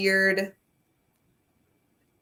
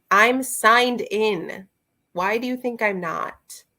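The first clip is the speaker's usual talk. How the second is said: slow, loud, emphatic protest; exasperated; 2 semitones higher, 3 dB louder than usual. Real, not acted. Vlogger to Goodreads refusing to show her review, exasperated. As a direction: insist at the uncooperative website, word by word.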